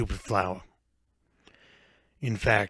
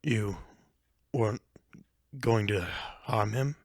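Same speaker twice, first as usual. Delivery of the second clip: calmer; 3 dB quieter than usual. Acted. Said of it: "The voice sounded a lot calmer".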